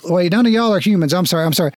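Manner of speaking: flustered guard. Acted.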